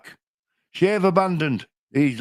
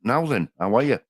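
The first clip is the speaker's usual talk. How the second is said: a relaxed Yorkshire "Now then"; Yorkshire greeting. Shown as a demonstration. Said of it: "I say it like that".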